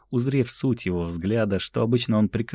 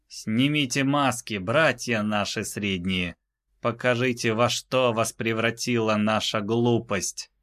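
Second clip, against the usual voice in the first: повелительный титан; 4 semitones higher than usual. Acted. Титан приказывает снять шлемы.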